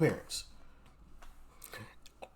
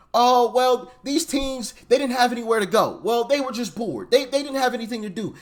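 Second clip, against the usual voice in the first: mocking excuse voice; 4 semitones higher than usual. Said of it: "you get a lot of excuses".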